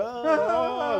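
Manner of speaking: gemido fingido; llanto imitado. Retold or imitated. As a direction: berrea como quien llora por las esquinas. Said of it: "Ya no hay que estar llorando". (llanto de parodia)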